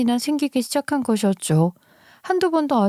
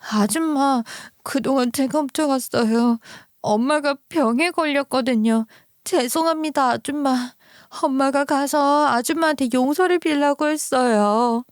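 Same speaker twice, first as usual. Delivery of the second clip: lightly voiced child, pitched higher; a small child apologizing, a bit higher; pleading child; 4 semitones higher than usual. Child kneels and begs forgiveness.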